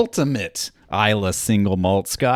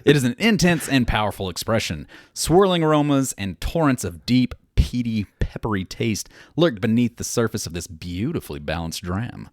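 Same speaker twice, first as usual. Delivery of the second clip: label read aloud. Acted. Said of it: "That, that is a poem".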